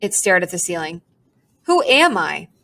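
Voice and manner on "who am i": brooding bird trailing off; lightly voiced resigned pigeon. A narrator's reading. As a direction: give up mid-thought with a sigh. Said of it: "with a resigned sigh".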